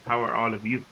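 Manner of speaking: distant, faint voice with the mic turned down; speaking from across the room; far from mic. Real, not acted. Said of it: "It sounds like he's far away".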